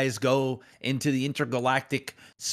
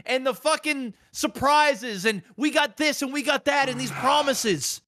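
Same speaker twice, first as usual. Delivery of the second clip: heartbroken lover's rant; 13 semitones higher than usual. Acted. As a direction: wail it at the game like a jilted lover who's done. Keeps ranting about the game.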